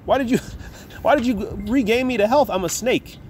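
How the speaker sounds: high taunting snake, laughing at her. Acted. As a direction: sneer it like a smug serpent. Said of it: "He said".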